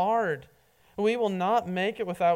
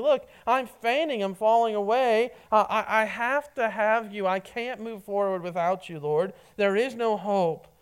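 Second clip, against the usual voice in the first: raised, urgent cry for help; desperate plea; 3 semitones higher than usual. Acted. Pastor voicing the psalmist, a raised desperate plea. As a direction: voice the psalmist begging God not to let him fall.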